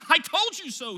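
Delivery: a touch of a scream; mild mock scream. A narrator's reading. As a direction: read the scream with a little push. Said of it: "he screamed".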